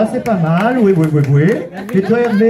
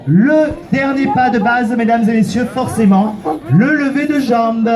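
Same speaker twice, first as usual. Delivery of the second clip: showman announcement. Acted. Host announces next dance step.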